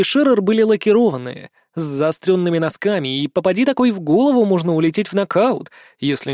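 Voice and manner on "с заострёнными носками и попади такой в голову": usual speaking voice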